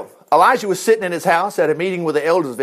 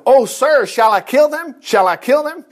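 higher, raised-voice appeal from a king; eager shouted question; 6 semitones higher, 4 dB louder than usual. A narrator's reading. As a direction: call it out high and urgent, as narrated. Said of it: "he shouted to Elijah".

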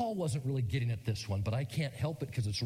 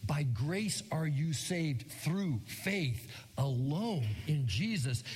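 slow scripture reading; much slower than usual. Shown as a demonstration. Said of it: "to read that Ephesians eight".

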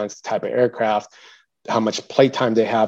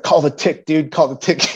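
imitating a commander, somewhat higher; urgent retold order; 5 semitones higher, 3 dB louder than usual. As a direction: press the order urgently, mildly raised.

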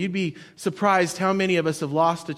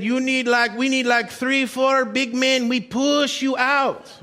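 a light imitation of a know-it-all stranger; pushy stranger; 4 semitones higher than usual. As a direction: play the bossy beach guy, lightly. Pushy stranger voiced in story.

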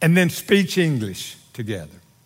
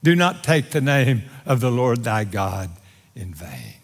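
God's rebuke; 6 semitones lower than usual. Acted. God looks down on man's cursing, solemn rebuke. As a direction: rebuke firmly, then drop down on the last words. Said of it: "God looks down and says".

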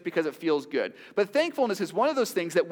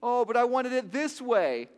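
whining; 5 semitones higher, 3 dB louder than usual. Acted. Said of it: "We start to whine".

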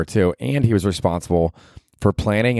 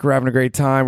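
higher, upbeat mock party voice; imitating a thrilled clubgoer, voice up high; excited partier; 6 semitones higher than usual. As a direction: play the happy partier before the lights come on. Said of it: "like, when the just fucking".

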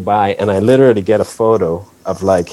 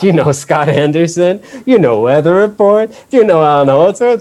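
louder, much higher, gushing fan voice; mock eager fan; 8 semitones higher, 4 dB louder than usual. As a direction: rattle off names like a thrilled superfan. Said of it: "It's like".

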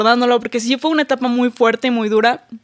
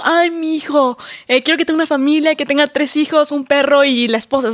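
imitando a un papá soñador, voz algo más aguda; voz de papá que imagina el futuro de su hijo, más aguda; padre ilusionado; 3 semitones higher than usual. Retold or imitated. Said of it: "te ven y dicen como". (papás al ver a su hijo recién nacido, voz ilusionada más aguda)

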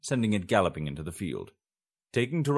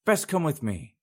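put-on old crone; 8 semitones higher than usual. A narrator's reading. Crone teasing the fugitives, a high old woman's voice. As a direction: play the amused old witch. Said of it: "a wrinkled crone".

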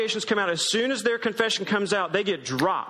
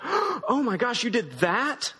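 mock surprise; 3 semitones higher, slower than usual. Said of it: "he's gonna be like".

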